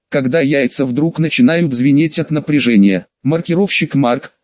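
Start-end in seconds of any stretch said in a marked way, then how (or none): 3.2-4.3 purring. Acted. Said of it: "промурлыкала суккуба".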